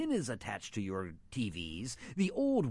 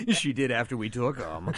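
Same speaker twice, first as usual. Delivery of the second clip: high cackling laugh through the words; loud gleeful cackle; 8 semitones higher, 11 dB louder than usual. Real, not acted. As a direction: cackle gleefully as you confess. Host cackles about treats.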